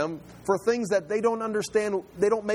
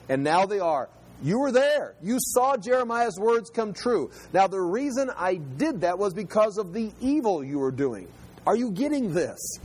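mildly stern reproof; confronting God; 3 semitones higher than usual. Acted. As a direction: drive the point home to people who should know. Voicing God confronting the exiles.

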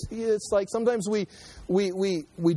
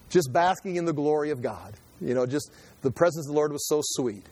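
mock dreamy; 3 semitones lower than usual. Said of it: "make fun of this".

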